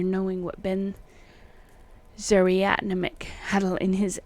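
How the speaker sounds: put-on deliberate, emphatic old-fashioned letter voice; declaimed antique correspondence, lightly put on; archaic letter reading. A narrator's reading. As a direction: read the old letter exactly as spelt, quaint spellings and all. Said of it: "me trying to read exactly as it is written".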